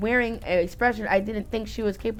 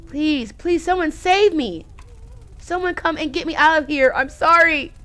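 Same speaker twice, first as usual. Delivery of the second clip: desperate plea; 4 semitones higher than usual. Acted. Character begging to be saved.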